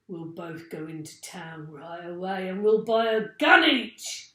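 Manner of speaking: loud, eager plan; Mister Twit shouting. A narrator's reading. Mister Twit telling his wife the gun plan, loud and eager. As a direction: call it out, pleased with himself. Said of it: "he shouted".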